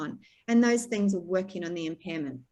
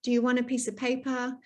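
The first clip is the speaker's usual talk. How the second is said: encouraging offer; 3 semitones higher than usual. Shown as a demonstration.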